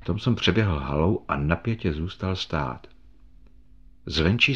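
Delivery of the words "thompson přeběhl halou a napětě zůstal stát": plain reading voice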